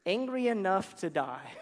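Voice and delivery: slow petulant answer breaking into a laugh; sulk, then crack up; laughing sulky Jonah. Retold or imitated. Jonah answering God, sulky and laughing. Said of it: "And he said".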